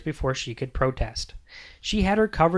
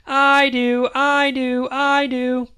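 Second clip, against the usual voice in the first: higher, louder eager call; eager shout; 10 semitones higher, 7 dB louder, much slower than usual. A narrator's reading. Whole family shouting for trail mix, eager and loud. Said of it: "shouted in unison".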